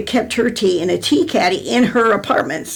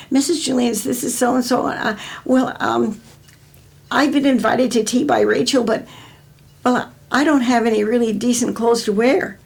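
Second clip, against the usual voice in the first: a touch higher, hesitant schoolgirl on the phone; hint of a nervous young girl asking; lightly voiced shy girl; 4 semitones higher than usual. Schoolgirl phoning grandma about tea clothes, lightly voiced and hesitant.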